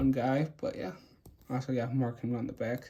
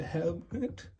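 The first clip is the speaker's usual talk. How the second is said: voice crack; 4 semitones higher, 5 dB quieter than usual. Real, not acted. Host showing his clone figure, voice cracking by accident. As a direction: voice cracks, jumping up high. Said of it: "sorry for the voice crack".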